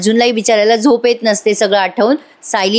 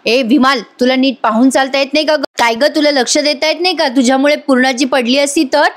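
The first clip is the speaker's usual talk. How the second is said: scolding; 3 semitones higher than usual. Retold or imitated. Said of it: "आता जोरात ओरडते बरं का विमलवर".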